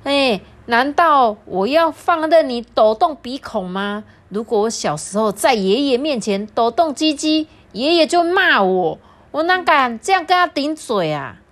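dad losing his temper at son; dad scolding. Acted. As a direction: scold the talking-back son. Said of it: "爸比忍不住大骂".

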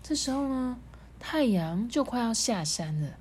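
softened storybook reading; expressive narrator, easing down softly; story narration. A narrator's reading. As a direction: tell it gently with pauses for suspense. Reads a story to children.

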